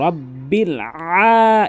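আ drawn out with weight; slow recitation with a heavy long আ; stressed long a. Shown as a demonstration. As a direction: lean on the আ of রব্বিল আ- and hold it. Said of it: "এই যে ভর দিয়ে আ".

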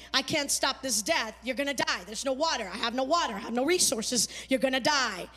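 low, subdued mock lament; understated retold despair. Preacher voicing Hagar despairing over her dying son, low and subdued. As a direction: voice her hopelessness softly, without real sobs. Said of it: "she's crying and she's sobbing".

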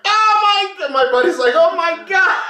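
high-pitched mock astonishment; imitated shock. Storyteller voicing buddy after donut hits windshield, mock shock. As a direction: play a buddy freaking out.

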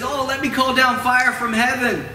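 high-pitched, impulsive offer; mock eagerness. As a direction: blurt it out with acted zeal. Acts out Peter's rash eagerness.

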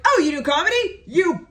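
loud, high mock disbelief; mocking men. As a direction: ham up a dismissive man's taunt. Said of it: "And they're like".

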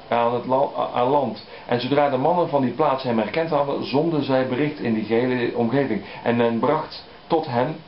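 unhurried reading from the pulpit; scripture reading. Acted. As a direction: read it out with solemn weight. Reads gospel passage aloud.

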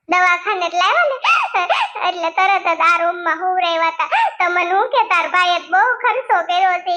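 acted crying, sobs breaking between phrases; tearful complaint. Hurt woman venting to her sister-in-law, tearfully. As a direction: complain through mild mock sobs. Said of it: "હવે તમે રોવો માં".

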